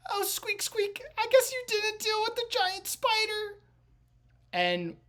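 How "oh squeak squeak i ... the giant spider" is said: very high, squeaky rat voice; rat guy. Acted. Rat guy to the party about the giant spider, high squeaky voice. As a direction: hold a tiny, high rat voice. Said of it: "the rat guy, goes".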